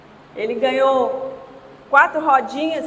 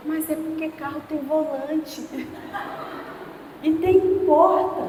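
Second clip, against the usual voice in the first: soft, lightly voiced little girl; mildly sheepish kid justifying herself; subdued child excuse; 5 dB quieter than usual. Father imitating his daughter explaining after a scolding, subdued child. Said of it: "acho que eu dei mancada".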